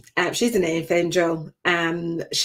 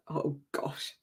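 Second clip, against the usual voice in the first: choked up; 4 semitones lower, 14 dB quieter than usual. Real, not acted. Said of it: "I'm gonna try not to cry".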